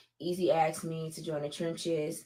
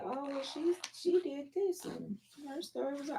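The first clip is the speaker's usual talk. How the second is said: mocking critics; 9 semitones higher, 3 dB quieter than usual. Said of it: "by saying".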